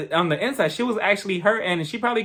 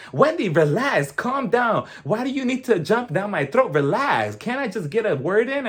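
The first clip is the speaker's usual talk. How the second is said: higher, exasperated mock protest; imitated defensiveness; 6 semitones higher than usual. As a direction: act out someone fed up with being jumped on. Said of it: "Robin got so defensive".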